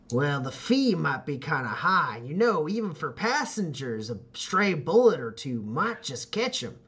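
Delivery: lightly voiced hardened rider testing a newcomer; a hint of a daunting mother nomad; tough nomad leader. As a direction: size the kid up, lightly in character. Voices Tusk challenging young Joe.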